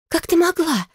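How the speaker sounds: high, strained rasp of betrayal; hoarse cry. A narrator's reading. Sister accusing her sister, high hoarse rasp. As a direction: choke the words out high and rasping. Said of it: "прохрипела сестра".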